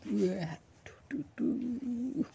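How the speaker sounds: high playful waduh; mock surprise. Real, not acted. Reacting to tall cake.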